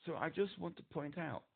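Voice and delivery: muffled phone voice. Real, not acted. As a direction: voice dulled by a covered mic. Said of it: "you've gone muffled again".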